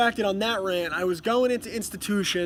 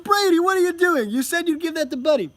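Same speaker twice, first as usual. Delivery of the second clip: high, loud retold parent's telling-off; acting out a loud parental protest; mock scolding; 9 semitones higher, 5 dB louder than usual. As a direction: exclaim in exasperated mock reproach. Acted scolding of toddler.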